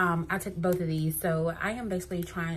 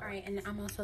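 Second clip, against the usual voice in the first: whispering; 3 semitones higher, 5 dB quieter, much faster than usual. Real, not acted. Whispered aside.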